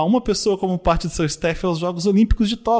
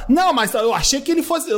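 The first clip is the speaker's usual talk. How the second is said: high mock gossip voice; mock Brazilian couple gossiping at lunch; 7 semitones higher than usual. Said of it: "Ó".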